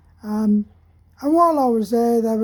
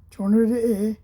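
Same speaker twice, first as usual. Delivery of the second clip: put-on Cockney accent; much faster than usual. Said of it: "with a broad Cockney accent said".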